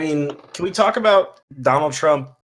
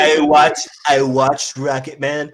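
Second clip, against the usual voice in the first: lightly voiced Trump, rambling and boastful; a hint of Trump bragging about the campaign; Trump impression. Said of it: "That's a spot on Trump".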